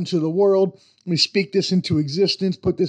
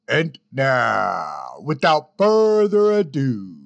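announcer intro; 4 semitones lower, slower than usual. Acted. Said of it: "ending outtake".

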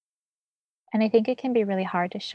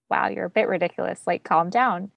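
gentle teasing. Retold or imitated. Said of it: "And you're like".

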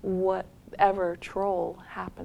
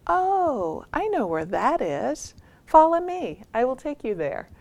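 lilting, swooping storybook offer of help; eager helpfulness; 5 semitones higher than usual. Retold or imitated. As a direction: offer to lead the way, lightly acted. Troll happily offers to help.

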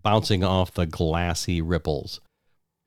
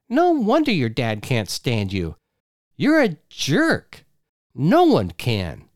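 yelling wife; 5 semitones higher than usual. Acted. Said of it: "She yelled".

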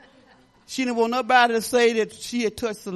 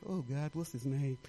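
quiet inner thought; 9 semitones lower, 15 dB quieter than usual. Retold or imitated. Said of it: "I look".

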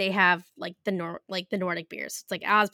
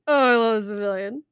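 excited; 5 dB louder than usual. Real, not acted. Gushing about China pavilion.

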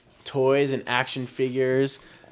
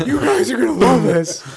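high squeaky cartoon voice; 11 semitones higher, 8 dB louder than usual. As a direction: do a goofy cartoon character. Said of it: "going through his Simpsons characters".

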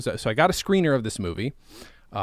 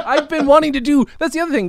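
high, loud laughing talk; 12 semitones higher, 6 dB louder than usual. Real, not acted. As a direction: laugh through the words.

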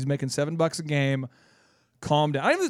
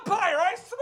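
high, laughing mock yell; angry sports dad; 14 semitones higher than usual. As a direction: complain at the ump like a fed-up dad. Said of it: "angry dad again".

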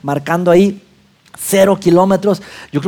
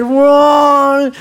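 a high, thrilled yelp of wow; a mock thrilled wow; excited wow; 8 semitones higher than usual. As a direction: let out a quick high whoop as you overtake. Thrill of overtaking a trailer.

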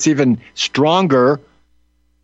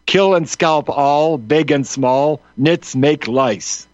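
slow quotation; slower than usual. Retold or imitated. Quoting Chivington's genocidal slogan.

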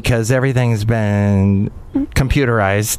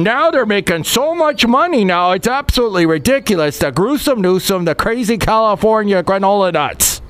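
a lightly put-on Canadian accent, pitched higher; wandering Canadian accent; 6 semitones higher than usual. Mocking the host in a vague Canadian accent, higher. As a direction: drift into a half-hearted Canadian accent. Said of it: "Don't know where that accent was going".

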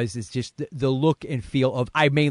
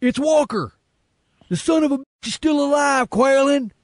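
hammed-up villain Travers; 7 dB louder than usual. Podcast host reading Travers' line, hammed-up villain bark. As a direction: overplay a henchman's outraged demand. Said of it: "I'll be Travers".

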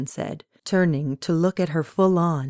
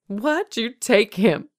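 slow, higher-pitched demand that falls at the end; insistent demand; 6 semitones higher, 3 dB louder, slower than usual. A narrator's reading. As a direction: press hard for an answer, word by word. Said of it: "she demanded again".

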